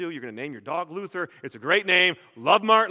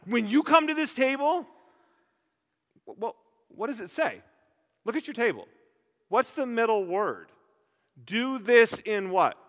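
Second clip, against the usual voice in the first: Zwingli's objection; 4 semitones higher than usual. Retold or imitated. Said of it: "He comes along and goes".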